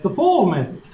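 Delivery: "foil" flattened to "fole"; Southern pronunciation. Shown as a demonstration. Redneck teacher naming the method, Southern "fole" for "foil". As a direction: run "foil" into one Southern vowel, "fole". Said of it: "I said it the way that I say it".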